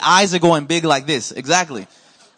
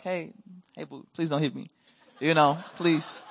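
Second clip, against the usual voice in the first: soft pleading; 2 semitones lower, 7 dB quieter than usual. Retold or imitated. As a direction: beg her gently to stop. Pleading with wife to stop.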